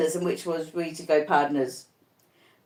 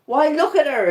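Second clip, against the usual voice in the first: 2 frantic cry, much higher and louder; 3 point at the ghost in panic; 1 crying out in terror; 8 semitones higher, 4 dB louder than usual. A narrator's reading. 4 raving Arthur shows his nurses the ghost, crying out in terror. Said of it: "he cries out".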